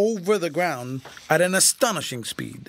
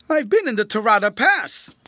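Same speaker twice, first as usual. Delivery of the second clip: pointed revelation; 8 semitones higher, 7 dB louder than usual. A narrator's reading.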